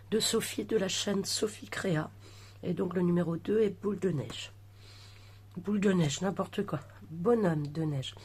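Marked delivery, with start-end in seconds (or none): 2.6-8.1 talking around a lozenge in the mouth; sucking a throat lozenge. Real, not acted. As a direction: speak with a cough drop in your cheek. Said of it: "Pardon, j'ai un bonbon, je vais l'enlever".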